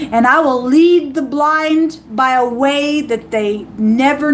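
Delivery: slow, solemn reading of scripture; measured voice of God quoted. Acted. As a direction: read it like holy writ. Reading God's words aloud.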